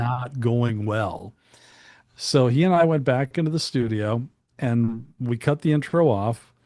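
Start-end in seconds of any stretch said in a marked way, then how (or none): 0.0-1.3 slow, drawn-out bad news; emphatic retold verdict. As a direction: stretch it out word by word. Retelling the record label's order.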